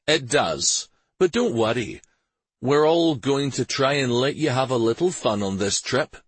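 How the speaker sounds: reassuring major. A narrator's reading. Major promising the prince some fun, reassuring.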